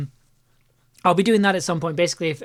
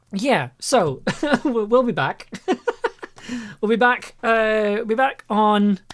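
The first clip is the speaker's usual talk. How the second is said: real laughter breaking up the words, higher pitched; crying with laughter; 5 semitones higher, slower than usual. Real, not acted. Streamer signing off to viewers after a silly film, crying with laughter. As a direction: laugh helplessly while trying to sign off. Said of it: "I'm crying so much right now".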